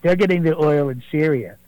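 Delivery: a fairly close Donald Trump impersonation, boastful. Acted. Impersonator calling the radio show as the president, Trump voice. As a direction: do Trump bragging to the host, leaning on believe me. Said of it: "calling in here is not President Donald Trump".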